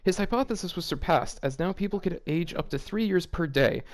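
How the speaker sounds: reading the fanfic aloud, lightly voiced; a touch of deadpan story narration.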